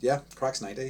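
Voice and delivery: very flat, dry, bored sarcastic deadpan monotone. Retelling how a bored man answered at a work event, imitating a flat, sarcastic reply. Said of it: "just in a very, very flat, very sarcastic tone".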